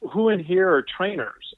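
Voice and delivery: lightly imitated high-pitched speaker; high-pitched squeaky impression. Conference presenter addressing a room of trainers, lightly mocked high-pitched voice. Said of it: "he starts talking with this high-pitched, kind of squeaky, annoying voice".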